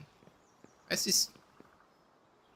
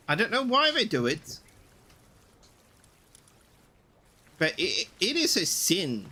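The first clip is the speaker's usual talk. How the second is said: rant; 2 semitones higher than usual. Real, not acted. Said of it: "Sorry, that's my rant".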